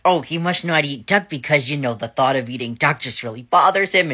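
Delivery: bursting with hope; excited inner voice. Retold or imitated. Thinking about her dad, excitedly hopeful. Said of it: "I was so excited".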